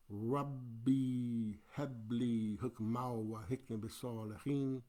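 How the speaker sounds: measured Arabic dua recitation; prayerful Quran recitation; Quranic recitation. Real, not acted. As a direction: recite the prayer in a devout chant.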